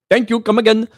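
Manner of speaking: hammed-up Indian accent mocking a scammer. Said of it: "do you wanna do an Indian accent?".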